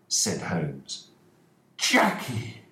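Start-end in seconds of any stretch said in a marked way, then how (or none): 1.8-2.6 shouted. Acted. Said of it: "shouted Mister Ferguson".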